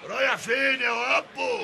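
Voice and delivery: loud call after the son; angry yell. Acted. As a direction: catch him leaving, bellowing. Father yells after son. (زعيق الأب)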